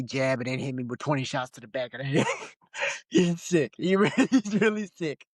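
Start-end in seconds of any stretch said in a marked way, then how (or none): 3.1-5.2 amused, words broken up by laughter; laughing while talking. Real, not acted. Joking about the beaten fighter being sick, cracking up. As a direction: get it out through high-pitched laughs. Cracking up over the sore loser.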